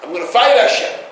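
lightly voiced rebel, rising and pushy; defiant rebel. Rabbi imitating a rebel who refuses to be forced. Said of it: "another person who says".

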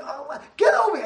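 high, loud yell; imitated scream. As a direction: shout into the earpiece.

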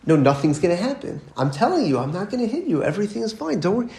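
mildly exasperated mom, insisting; lightly acted, rising agitation; agitated mother. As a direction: imitate a mother getting worked up, without shouting. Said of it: "starts to get a little bit more, like, agitated".

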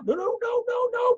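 high, loud repeated refusal; preacher shouting down despair; emphatic no. Real, not acted. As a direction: cut the despair off hard.

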